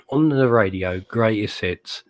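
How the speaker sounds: lightly hammed-up radio DJ intro, slow on greatest hits; radio announcer voice. Handed over to as Mister Radio Announcer, mock DJ intro. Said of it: "over to you, Mister Radio Announcer".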